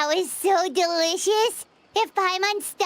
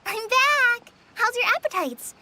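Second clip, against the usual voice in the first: calling out; 5 semitones higher than usual. Acted. Returning, calling to camp.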